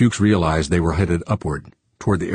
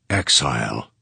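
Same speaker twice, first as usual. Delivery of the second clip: low stunned disbelief; 6 semitones lower than usual. Acted. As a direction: say it lower, stunned.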